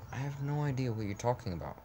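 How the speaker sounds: exasperated. Acted. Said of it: "I said in exasperation".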